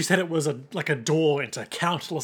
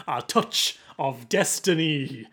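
put-on slow, over-the-top Caribbean accent for Tia Dalma; a mock Caribbean accent, said slowly as a movie line; slower than usual. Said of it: "do an impression of her line in that voice".

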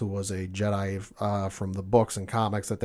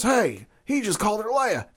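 stormtrooper voice; 9 semitones higher than usual. Retold or imitated. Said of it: "the stormtrooper goes".

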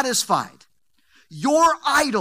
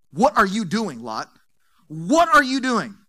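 exasperated; 5 dB louder than usual. Acted. Repeated exasperated question.

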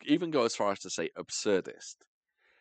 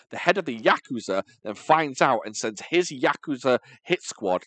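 brisk, emphatic read-aloud of a plot; reading a synopsis; 2 semitones lower, 5 dB louder than usual. Acted. Host reads co-hosts the plot they wrote, read-aloud delivery. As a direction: read out a written plot summary.

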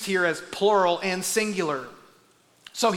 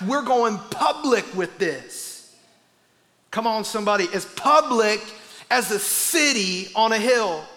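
preaching. Acted. Preaches the Message paraphrase.

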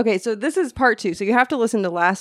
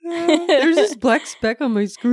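mock boss voice; 7 semitones higher, 3 dB louder than usual. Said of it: "imitating the boss".

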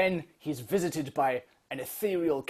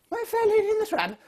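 mock bewildered; 6 dB louder than usual. Mishearing nurse's offer, retold.

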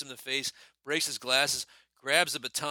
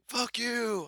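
higher, louder mock road-rage yell; imitated angry curse; 13 semitones higher, 6 dB louder than usual. Buddy imitating a furious tailgater cursing, higher and louder. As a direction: hurl it like a retold driver's insult.

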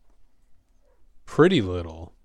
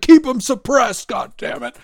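high, loud mock command that drops to a breathy end; hammed-up army order; barked order; 13 semitones higher, 10 dB louder than usual. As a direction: yell the order across the woods. Tower soldier yelling orders.

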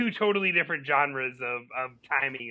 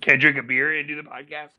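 talking through a mouthful of food; muffled, mouth full while eating; 7 dB louder than usual. Real, not acted. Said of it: "And you sound muffled".

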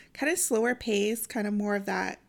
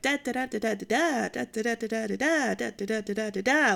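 singsong da-da-da phrases, each rising at the end; imitated repetitive cadence. Listener mimics an audiobook narrator's odd tempo, repetitive rising cadence. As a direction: mimic the same lilting rhythm over and over. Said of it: "rising at the end of her sentences".

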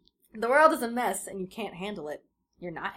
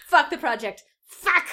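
high, much louder shouted curses building up; furious shout; 8 semitones higher, 10 dB louder than usual. Acted. John yelling at the nerdfighters, furious shout. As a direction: explode at the crowd. Furious outburst read aloud.

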